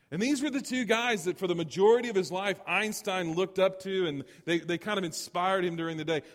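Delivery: high, loud sermon delivery; forceful preaching. Acted. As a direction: preach it out with rising energy. Preacher lifts into forceful storytelling.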